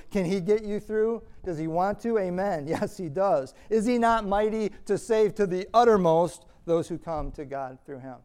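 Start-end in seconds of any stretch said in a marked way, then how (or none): 3.7-8.2 loud, higher challenge peaking on uttermost; rhetorical preaching question. Real, not acted. Preacher challenging the congregation, loud rhetorical question. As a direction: throw the question out to the room. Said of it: "That's literally what the verse says".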